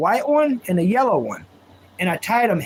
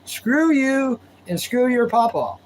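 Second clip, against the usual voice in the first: mock angry friend; 5 semitones higher than usual. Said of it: "He was mad".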